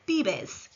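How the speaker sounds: "bibes" with b sounds, falling; model Spanish verb. Shown as a demonstration. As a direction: say "bibes" clearly for learners. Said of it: "Repeat after me".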